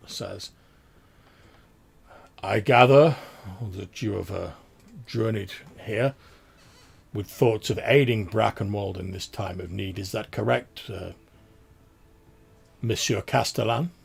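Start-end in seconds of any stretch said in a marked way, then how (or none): 2.4-13.9 low sonorous voice. Acted. Duke addressing the Castellan from his throne, sonorous. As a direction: roll the words out like a duke at court. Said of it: "again in this sort of low, sort of sonorous, uh, voice".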